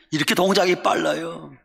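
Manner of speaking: ordinary talk, nothing marked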